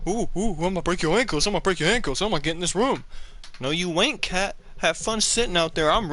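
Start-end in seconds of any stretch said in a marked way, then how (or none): 0.1-1.5 quick mock taunt; lightly taunting cat voice. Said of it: "He was like". 1.5-3.0 fast taunting cat voice; a hint of a cocky cat taunting; voicing the cat. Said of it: "He was like".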